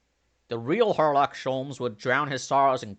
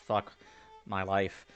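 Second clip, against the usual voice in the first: ordinary talk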